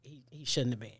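soft unvoiced whisper. Real, not acted. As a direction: breathe it as an aside. Quiet echo of a remark.

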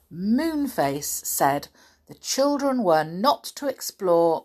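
animated storybook narration; children's story reading. A narrator's reading. Reader tells children of the Faraway Tree, animated storytelling. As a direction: read it to children with expressive emphasis.

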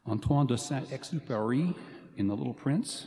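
French name said with a French accent. Shown as a demonstration. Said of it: "do you like my French accent".

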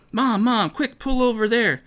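high, hurried plea to mom; urgent girl. Acted. Girl urging her mom to pull over, high and urgent.

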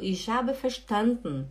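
"verstanden" as fer-SHTAN-dn, slowly; swallowed final E. Shown as a demonstration. Teacher reading what Angela wrote, swallowed ending. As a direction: drop the last E of "verstanden", ending on n. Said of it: "É como se engolisse aqui".

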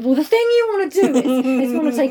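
know-it-all directions voice. Retold or imitated. Mimicking Jem giving road directions.

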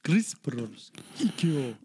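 whispering. Pretend. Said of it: "whispered name".

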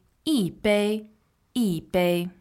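一 falling, then level 杯; fourth tone on 一. Shown as a demonstration. Teacher models 一杯 from the dialogue, 一 falling. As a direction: drop 一 firmly before 杯. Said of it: "it becomes a fourth tone".

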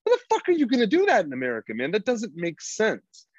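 high, fast mocking disbelief; incredulous scoff. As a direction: scoff at the survival advice. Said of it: "I'm like".

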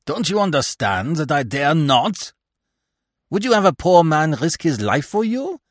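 high, loud angry outburst; sudden anger. A narrator's reading. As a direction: lash out angrily, driving him away. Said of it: "quite suddenly he became angry".

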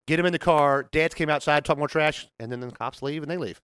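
normal talking voice

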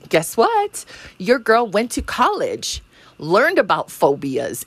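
bright teasing question; playful tease. Real, not acted. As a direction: guess what, sung up high. Teasing reveal to the audience.

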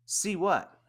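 high, puzzled snap back; confused reply. Retold or imitated. Buddy answering the driver, puzzled and high. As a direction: answer baffled, caught off guard.

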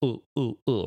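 "ooh, ooh" with a hard glottal catch at the start; glottal stop demo. Shown as a demonstration. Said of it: "So a glottal being".

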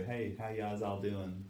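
put-on understated Delaware local accent, slurred greeting; Delaware trailer-park accent. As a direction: lazily imitate a Delaware accent. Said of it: "they just say".

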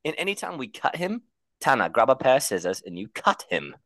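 high put-on British accent. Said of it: "we're done with the accent".

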